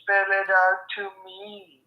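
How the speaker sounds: high singsong mocking voice; exaggerated cartoon intonation. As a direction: bounce each word like a cartoon. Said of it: "Why are you talking like that?".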